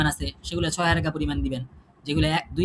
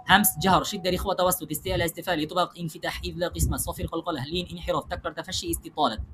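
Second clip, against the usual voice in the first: in one breath; 4 dB quieter than usual. Shown as a demonstration. Teacher showing students the list in one breath, rattled off quickly. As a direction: rattle the list off in a single breath, getting softer toward the end. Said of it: "এক শ্বাসে বলতে হবে".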